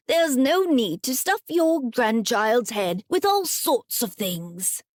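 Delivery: put-on a mild scolding old woman's voice; lightly voiced grandmother telling him off; cross grandmother. Grandmother scolding grandfather for his tall tales, mildly cross. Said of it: "snapped her grandmother".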